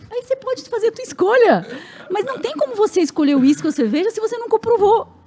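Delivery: loud, high-pitched mock exasperation; re-enacted parental lecture at its peak; emphatic acted punchline. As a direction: drive the father's argument home, amused. Father's punchline to his daughter, acted.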